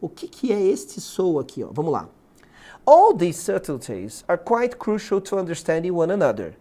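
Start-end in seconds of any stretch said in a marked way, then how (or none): 2.9-6.6 measured reading aloud of an English exam text; careful English read-aloud. Shown as a demonstration. Teacher reading the exam sentence to students, careful English read-aloud. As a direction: read out in English with deliberate intonation. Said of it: "tu tem que ler com a entonação correta".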